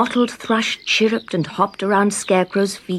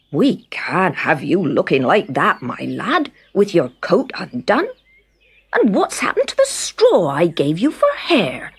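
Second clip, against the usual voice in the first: lightly voiced farmer. Farmer Furrow voice.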